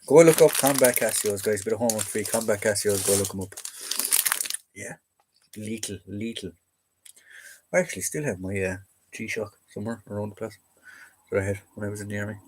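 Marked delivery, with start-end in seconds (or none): 3.4-12.4 talking while eating; words round a bite of food; mouth full. Real, not acted. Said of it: "Sorry, I'm eating again".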